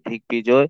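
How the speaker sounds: দিগ্বিজয় as "dig-bijoy"; retained-consonant demo. Shown as a demonstration. Teacher showing the retained b in দিগ্বিজয়, pronunciation demo. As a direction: sound the b clearly in দিগ্বিজয়. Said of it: "ভয়ের উচ্চারণ হবে".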